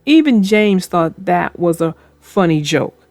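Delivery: put-on storybook reading voice for kids; gentle read-aloud narrator; story narration. A narrator's reading. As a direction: read it like a bedtime tale. Narrates a children's train story.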